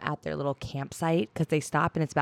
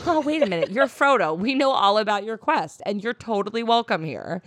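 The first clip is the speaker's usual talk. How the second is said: higher-pitched mock excited welcome; gushing recognition; 3 semitones higher, 3 dB louder than usual. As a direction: act out sudden delighted recognition. Guards suddenly recognise Frodo, gushing.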